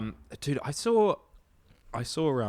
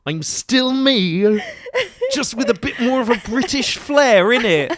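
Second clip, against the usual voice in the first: put-on British accent; 5 semitones higher than usual. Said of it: "you sound different".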